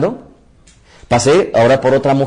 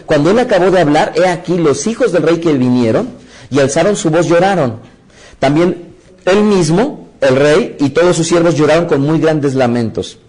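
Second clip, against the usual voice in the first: measured reading of a Bible verse; scripture reading; 2 semitones higher than usual. Acted. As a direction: read the lament like holy text. Reads scripture aloud.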